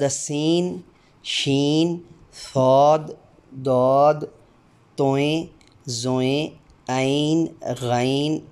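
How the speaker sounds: each Urdu letter name sounded out slowly and distinctly. Shown as a demonstration. Teacher drilling the Urdu alphabet for demo candidates, slow and distinct. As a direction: recite the alphabet, one clear sound at a time. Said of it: "हर हरफ की आवाज़ अदा करते हुए".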